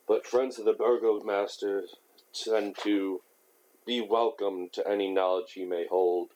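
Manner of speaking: swallowing a burp while talking; tight, pinched throat; strangled voice. Real, not acted. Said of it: "I'm sorry for sounding like I'm strangled".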